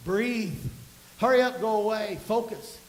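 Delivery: loud, firm commands to yourself; acted self-talk in short orders; urgent self-coaching. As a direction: talk yourself through panic forcefully. Coaching oneself through panic attack.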